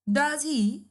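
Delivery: "Does he?" with a falling tune; falling intonation. Shown as a demonstration. Teacher shows students a falling question tag, falling intonation. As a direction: bring "he" down at the end. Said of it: "falling intonation".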